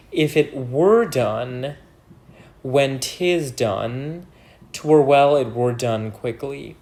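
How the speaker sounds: very slow verse, phrase by phrase; soliloquy reading. Acted. Teacher dissecting Macbeth's confusing tense, slow phrase-by-phrase reading. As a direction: draw out each phrase and pause between them.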